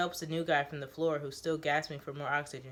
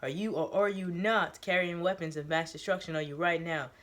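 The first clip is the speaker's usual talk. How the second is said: firm demand; 4 dB louder than usual. Acted. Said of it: "Teo screams at the newbie".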